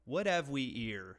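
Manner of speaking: Cockney dropped H's in a plain American accent; straight American accent. Shown as a demonstration. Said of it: "but with a straight American accent".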